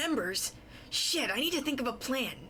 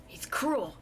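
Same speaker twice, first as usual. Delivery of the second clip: whisper; 4 semitones higher than usual. Acted. Whispered aside in narration.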